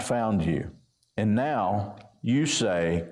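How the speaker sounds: measured, even Bible reading voice; a gently formal reading from the pulpit; scripture reading. Acted. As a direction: read the passage with steady weight. Preacher reads scripture aloud.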